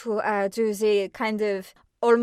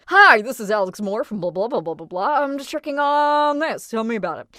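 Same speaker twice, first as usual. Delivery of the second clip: telephone voice. Retold or imitated. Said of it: "telephone voice".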